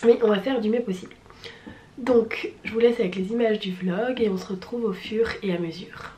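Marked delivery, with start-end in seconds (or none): 2.0-6.1 hoarse half whisper. Real, not acted. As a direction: fade into a tired whisper. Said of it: "avec cette voix".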